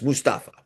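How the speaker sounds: Mustafa stressed on the middle, mus-TA-fa; corrected pronunciation. Shown as a demonstration. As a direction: say Mustafa evenly, leaning on STA. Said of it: "about the correct pronunciation".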